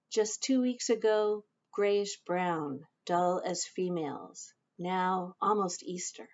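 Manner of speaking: measured poetry recital with pauses between phrases; poem reading. Acted. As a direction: read your poem aloud, line by line. Reads own poem aloud.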